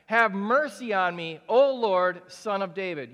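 loud cry of a desperate mother on Lord; a mother begging Jesus, cried aloud. Acted. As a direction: call out for mercy, swelling on Lord. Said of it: "was crying".

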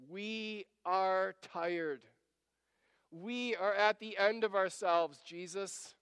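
slow, weary exasperation; acting out disciples at the end of themselves; exasperated. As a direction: spell it out word by word, fed up. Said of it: "I can hear them being exasperated with Jesus".

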